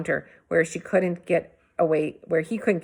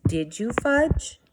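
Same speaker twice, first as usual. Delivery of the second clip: slow pressing higher question; not so calmly; 6 semitones higher, slower than usual. A narrator's reading. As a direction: push him, patience slipping. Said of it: "not so calmly".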